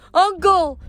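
high, urgent cry for help; screamed. A narrator's reading. Boy dangling from tower to uncle, screaming. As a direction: cry out in a falling boy's panic. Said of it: "he screamed".

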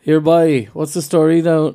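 shaky grasp of a Cork accent; attempted Cork accent. Shown as a demonstration. Copying a friend's phrase, imperfect Cork accent. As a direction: have a go at Cork. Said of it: "Cork phrase in a Cork accent".

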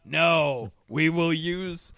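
slow, loud, mock-grand pronouncement; mock pompous villain. Mocking the villains with a slow grand declaration. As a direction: declare it like a smug tyrant.

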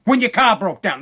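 imitated indignant scolding; pissed-off father. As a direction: lay it out like an angry dad, phrase by phrase. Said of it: "he was pissed".

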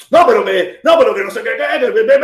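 high, stuck-on-one-word stammer; mock spluttering protest; flustered sputtering. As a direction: imitate a man losing his footing in an argument. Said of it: "El tipo ya empezó a patinar".

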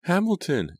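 a narrator's rising panicked scream. A narrator's reading. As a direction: scream his name in horror. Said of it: "Angelica screamed".

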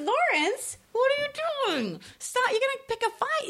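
retold alarmed plea. Stopping Lawrence picking fights.

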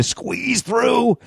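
high, stretched-out strain; straining to squeeze through. Retold or imitated. Driver retelling a tight manoeuvre, straining. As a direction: draw it out high and slow, as if squeezing past. Acts out squeezing past another car.

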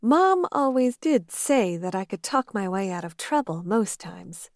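a hint of mischievous office worker; Dana, playful. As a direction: tease him with a grin. Dana's voice in the romance.

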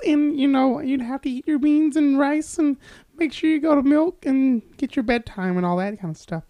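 high, put-on proper kid voice; white voice. Shown as a demonstration. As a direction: raise the pitch and sound prim and sheltered. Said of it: "you talk like this".

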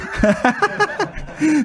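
laugh. Real, not acted. Laughs at own accent joke.

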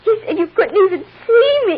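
put-on crying child. Daughter tells her mother what she was told, sobbing fast. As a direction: blurt it out while crying. Child blurting through tears.

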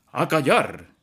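explosive command; shout. A narrator's reading. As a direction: bark the order to silence him. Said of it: "gritó".

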